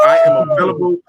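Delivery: high, loud shout of I am available; excited shout. Real, not acted. Host to the Lions organization, a high excited shout. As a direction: yell it like you're begging for the job.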